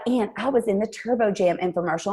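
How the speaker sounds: lightly imitated sweet Southern accent; touch of a sweet Southern voice; Jackie Woodfin. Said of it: "I'm gonna do her accent".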